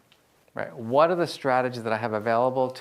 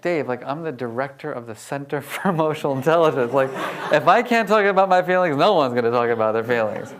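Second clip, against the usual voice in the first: laughing protest; 4 dB louder than usual. Retold or imitated. Retold argument with brother.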